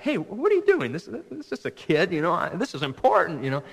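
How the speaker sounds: imitating a put-out grown-up; indignant adult. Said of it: "people look at you like".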